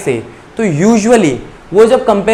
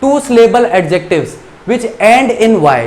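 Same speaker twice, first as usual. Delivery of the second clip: slow rule reading; 3 semitones higher, much slower than usual. Shown as a demonstration. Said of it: "rule number three क्या कहता है".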